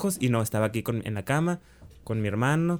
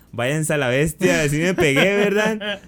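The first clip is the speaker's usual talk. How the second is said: louder, higher mock outburst; retold indignant protest; 5 semitones higher, 5 dB louder, slower than usual. Reenacting confronting friends who deny the fall, indignant outburst. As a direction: call them out, rising in pitch and volume.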